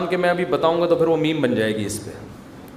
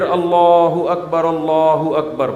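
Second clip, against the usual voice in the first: azan call; much slower than usual. Shown as a demonstration. Preacher repeating the short azan call. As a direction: call it out, a bit fuller. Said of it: "مختصر اذان دے".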